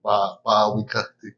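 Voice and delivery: "Bawikati" demonstrated after a first syllable "Ba-"; correct pronunciation. Shown as a demonstration. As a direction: model the name "Bawikati" for a learner, ba-wi-ka-ti. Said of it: "what's a good pronunciation".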